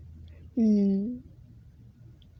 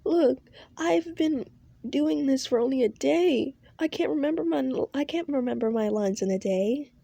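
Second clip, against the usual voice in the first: put-on defensive girl; 4 semitones higher than usual. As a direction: push back defensively.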